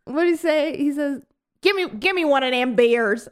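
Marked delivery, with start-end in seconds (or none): 1.6-3.3 lightly drawled Southern Travolta impression; mock Southern accent. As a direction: imitate a bad Southern twang, half-joking. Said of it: "Why is he doing that accent?".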